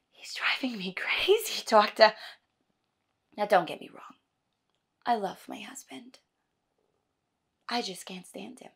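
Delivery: weary complaint, trailing into hush; exasperated wife. Acted. Acts a monologue to doctor.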